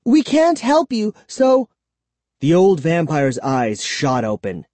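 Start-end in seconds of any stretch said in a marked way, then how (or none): 0.1-1.7 high-pitched, urgent protest; insistent refusal. A narrator's reading. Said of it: "Kara insisted".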